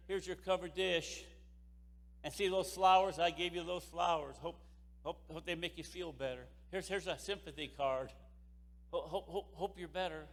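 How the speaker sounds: low, hushed and halting, stumbling over hope; awkward mourner. Retold or imitated. Mourners at the wake acted.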